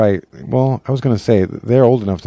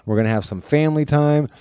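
raised, upbeat mom voice; mom's announcement; 6 semitones higher than usual. Retold or imitated. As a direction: announce family time cheerily. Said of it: "so she goes".

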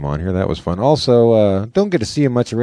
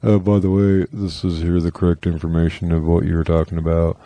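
smug correction; 4 semitones lower than usual. Retold or imitated. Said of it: "I was gonna say".

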